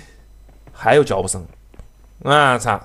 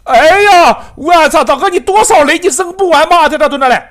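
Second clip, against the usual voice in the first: loud, raised-pitch complaint at the grenade spam; exasperated yell; 5 semitones higher, 4 dB louder than usual. Real, not acted. Gamer pinned down by grenades yells loud disbelief. Enemy keeps throwing grenades.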